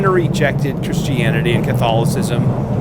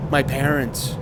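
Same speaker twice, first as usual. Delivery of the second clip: a softer, savoring "My parents."; tender; 4 dB quieter, slower than usual. Shown as a demonstration. Saying "My parents." with quiet gratitude. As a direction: let "My parents." land gently, as a gift.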